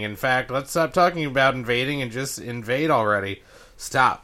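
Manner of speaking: lightly voiced alien radio pilot; a hint of a scheming alien over comms. Reads label as alien pilot.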